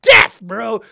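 slow, loud disgusted yell; loud, dragged-out cry of disgust; shouted outrage. Real, not acted. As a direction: yell it out, stretching death. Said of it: "it interrupted the shred".

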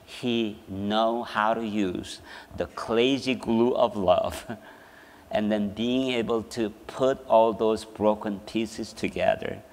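low, soft and unhurried; quiet, solemn consoling. Retold or imitated. Mother tells children about healing, quiet and solemn. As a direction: softly offer hope to the broken.

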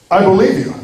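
lightly voiced easygoing judge, slightly lifted pitch; a touch of kindly, credulous acceptance; lenient judge. Judge believing the apologetic murderer, mildly lenient.

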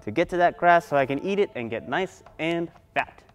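lightly voiced high goat; medium billy goat. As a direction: plead your case as a goat. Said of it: "then the medium billy goat".

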